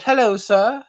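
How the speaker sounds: a hint of polite formality; mock proper greeting. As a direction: put on a lightly proper greeting. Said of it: "That would be more proper".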